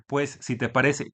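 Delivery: slow, run-together reading of a message with no commas; slow unpunctuated reading. Retold or imitated. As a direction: drag it out as if no punctuation. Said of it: "todo sin comas".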